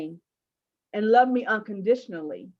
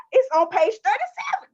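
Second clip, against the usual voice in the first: higher first telling; 12 semitones higher, 5 dB louder than usual. Real, not acted. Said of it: "Page, page".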